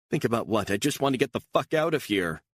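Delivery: fed up, push back at him hard; exasperated outburst. Acted. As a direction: pitch jumps high as she loses patience. Beatrice snaps at Stone.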